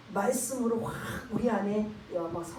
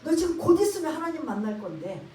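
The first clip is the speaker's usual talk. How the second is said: mild scolding; 3 semitones higher, 3 dB louder than usual. Retold or imitated. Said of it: "야단 꾸짖고 있는 거예요".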